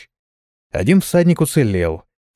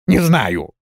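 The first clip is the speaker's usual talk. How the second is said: almost tearful; 5 semitones higher than usual. A narrator's reading. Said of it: "Голос дворфа был почти слезливый".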